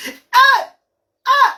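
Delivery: a sudden high, loud cry of delight; excited shout. Real, not acted. Host cheering her live viewers, high excited shout. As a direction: shout it out in celebration.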